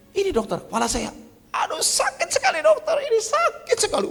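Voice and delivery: very high, pained complaining voice; whining patient. Retold or imitated. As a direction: moan about the pain. Pak Cek complains to doctor. (Pak Cek mengeluh kesakitan pada dokter dengan suara sangat tinggi)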